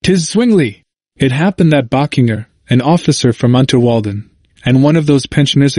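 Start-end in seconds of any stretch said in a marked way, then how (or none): 0.0-0.8 mild narrated exclamation; exclaiming. A narrator's reading. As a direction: exclaim it with a high lift on the name, falling away.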